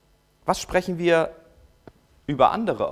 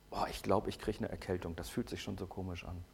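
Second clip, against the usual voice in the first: mock whiny complaint; 9 semitones lower, 16 dB quieter than usual. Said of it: "Bekenntnis zur Krankheit".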